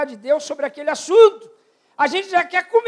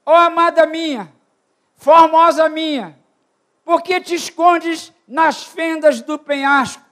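voicing the Lord's call; 2 semitones higher, 4 dB louder, slower than usual. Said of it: "Ele fala assim".

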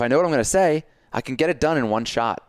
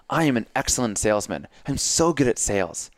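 excited. Shown as a demonstration. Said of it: "my voice is getting higher and more excited".

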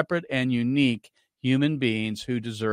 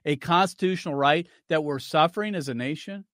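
higher-pitched incredulous quoting, rising into a question; incredulous echo; 4 semitones higher than usual. Retold or imitated. Radio host rebutting a politician's clip, incredulous echo. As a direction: throw the quote back in disbelief. Scornfully echoes the played clip.

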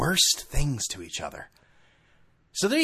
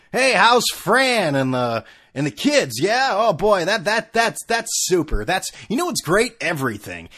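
higher, louder gushing mock bliss; hammed-up cheery guy; 4 semitones higher, 5 dB louder than usual. Chatting naked in the locker room, hammed-up gushing cheer. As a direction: gush about everything like a too-happy gym buddy.

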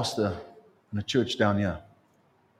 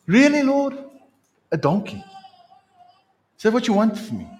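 high, indignant disbelief; incredulous disciple; 11 semitones higher, 4 dB louder than usual. Acted. A disciple questions the Lord's errand, high and incredulous. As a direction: squeak out the protest, affronted.

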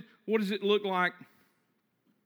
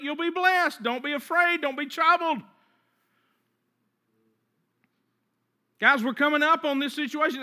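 raised, urgent preacher voice; higher-pitched pulpit exhortation; emphatic preaching; 5 semitones higher than usual. Real, not acted. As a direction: press it home to the congregation. Preacher at full force.

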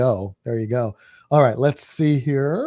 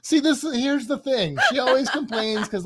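laughing while talking; 8 semitones higher than usual. Real, not acted. Laughing while teasing his wife.

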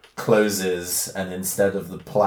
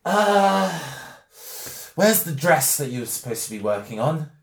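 high, raspy voice of a big man; powerful man squeaking out orders; 5 semitones higher than usual. Acted. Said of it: "powerful but surprisingly high and raspy voice".

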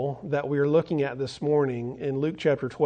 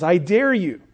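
lightly acted schoolyard taunt, escalating; mock challenge, each dare drawn into an arch; 3 dB louder than usual. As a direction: goad him like a storybook bully. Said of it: "he starts to mock him".

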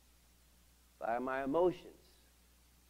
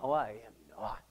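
stubborn arguing; 4 semitones lower than usual. Retold or imitated. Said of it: "I'm arguing with God".

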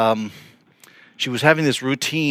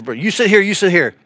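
raised-pitch imitation of bossy seating; stern ordering; 5 semitones higher, 3 dB louder than usual. Bold convert seating a couple at church, stern. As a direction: firmly direct each one to a seat. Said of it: "she was a really stern kind of person".

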